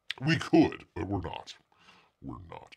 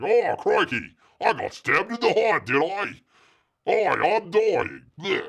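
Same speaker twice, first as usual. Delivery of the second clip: mock dying Steve Irwin; 7 semitones higher, 4 dB louder than usual. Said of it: "and he's like".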